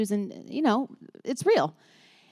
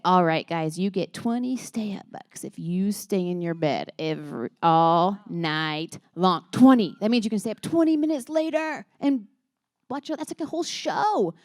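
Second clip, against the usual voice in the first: hyped-up parent announcement; 4 dB louder than usual. Retold or imitated. Mom selling kids the stay-up bucks deal, hyped-up. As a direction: stretch and punch each promise for excited children.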